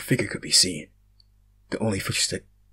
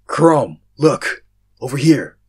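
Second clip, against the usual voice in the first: calling out; 5 semitones higher, 10 dB louder, slower than usual. Acted. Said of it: "a voice said".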